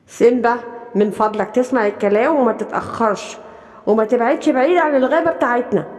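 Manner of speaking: mother lion, low and firm; stern mother. Acted. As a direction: tell your son firmly to come home on time. Mother warns Simba.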